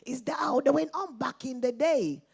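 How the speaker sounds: a light imitation of her teenage son asking; quoting her son. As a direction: lightly voice her son's innocent question. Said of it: "he says".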